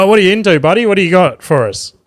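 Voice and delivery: high, loud and overly upbeat; mock cheery greeting. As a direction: egg the drunk guy on with fake enthusiasm. Comic greets drunk heckler.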